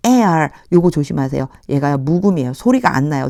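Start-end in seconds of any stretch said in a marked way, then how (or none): 0.1-0.5 heir said as "air", no h sound; silent h heir. Shown as a demonstration. Teacher reading Bible verse to Korean students, heir said as "air". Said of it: "heir라고 읽어주셔야 돼요".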